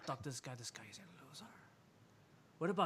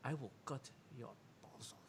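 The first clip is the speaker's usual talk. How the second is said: menacing threat; 14 dB louder, slower than usual. Acted. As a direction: snap the threat, exploding at the end. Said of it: "He just goes".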